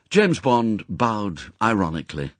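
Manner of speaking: ordinary delivery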